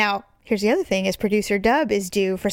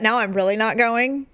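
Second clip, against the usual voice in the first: defiant. Retold or imitated. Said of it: "You know what?".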